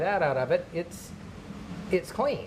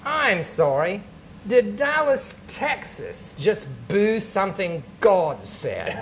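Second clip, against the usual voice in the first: loud, incredulous God, pitch jumping up mid-question; mock indignation; 4 semitones higher, 4 dB louder, slower than usual. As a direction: challenge the crowd, stretching out the end. God indignant at the audience's reaction.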